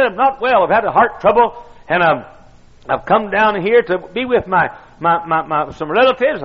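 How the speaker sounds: put-on high, halting old man; squeaky old voice. Ailing old preacher explaining his move, squeaky. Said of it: "In a squeaky old voice".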